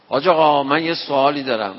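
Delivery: loud call to the cleric. Retold or imitated. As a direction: call out boldly across the mosque. Young man calling out in mosque.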